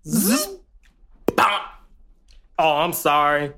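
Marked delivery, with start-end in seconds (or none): 0.1-0.5 zipper sound. Pretend. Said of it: "Do the zipper sound".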